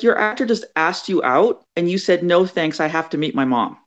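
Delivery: imitated disbelief, starting high; incredulous friend. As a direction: spell out a pal's blunder, appalled. Friend spells out her blunder.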